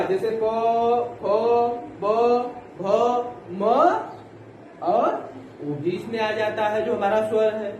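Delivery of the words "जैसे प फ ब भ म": प फ ब भ म said one by one with lips; labial letters. Shown as a demonstration. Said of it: "प वाला लाइन पूरा".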